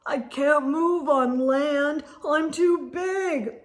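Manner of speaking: a stuck giant groaning; hammed-up moan of a beached whale. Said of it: "moaned the whale".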